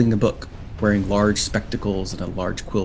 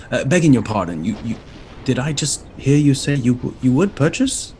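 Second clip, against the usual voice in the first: disbelieving, rising to a squeak; can't believe his ears; stunned imp; 4 semitones higher, 5 dB louder than usual. Acted. Imp professor stunned that the party wants to buy. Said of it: "his arms go slack, and he says".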